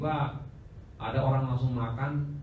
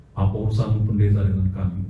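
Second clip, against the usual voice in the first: demon voice; 3 semitones lower, 6 dB louder than usual. Retold or imitated. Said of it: "Ngomongnya ngomong cowok itu anak".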